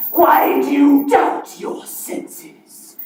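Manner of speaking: slow, ghostly Marley voice; playing both parts. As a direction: draw it out like a spectre. Marley's ghost asks slowly.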